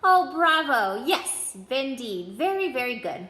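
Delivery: put-on slow, loud, thrilled old wand-maker; cried out bravo. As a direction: burst out in delight at the sparks. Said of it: "Mister Ollivander cried".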